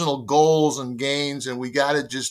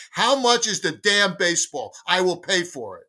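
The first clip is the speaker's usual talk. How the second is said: higher-pitched mock-angry demand; retold indignation; 4 semitones higher than usual. Storyteller replaying his showdown with the boss, indignant. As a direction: act out being hot under the collar. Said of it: "I was so hot".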